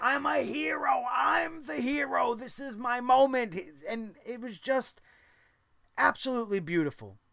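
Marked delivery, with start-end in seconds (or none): 0.0-3.6 put-on wrestler's scream, stretched out, higher pitch. Retelling what a wrestler shouted during a match: imitating a wrestler screaming. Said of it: "he was screaming".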